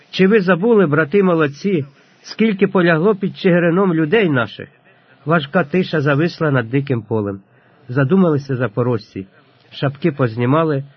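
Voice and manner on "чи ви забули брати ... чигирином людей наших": higher, louder indignant appeal; raised voice. A narrator's reading. Ataman reminds his brothers of the fallen, raised voice. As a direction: raise your voice to rebuke the men. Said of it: "і підвищив голос".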